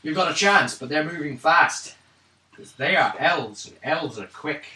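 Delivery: deliberate character voice, slow in places; lightly voiced informant. Character warns party the elves move fast, lightly voiced informant. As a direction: give the warning as the knowing local.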